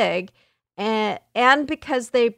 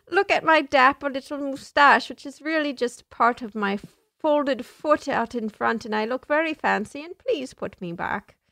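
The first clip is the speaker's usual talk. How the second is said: Niles Crane. Pretend. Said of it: "like Niles Crane".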